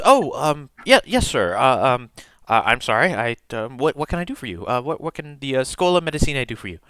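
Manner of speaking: lightly voiced, hesitant young desk clerk; flustered student clerk. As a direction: stammer politely, pitch lifted a touch. Game master voices flustered clerk.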